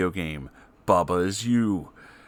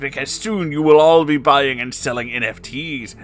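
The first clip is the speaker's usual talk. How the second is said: higher, louder salesman pitch; sleazy villain voice; 5 semitones higher, 4 dB louder than usual. Acted. Spamton boasting his comeback to viewers, high sleazy salesman voice. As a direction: hawk it like a crooked salesman. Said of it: "Cackled Spamton G Spamton".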